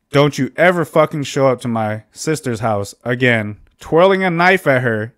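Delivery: acted-out warning, pitch rising; retold angry threat. Brother warning him off his sister's house, angry retold threat.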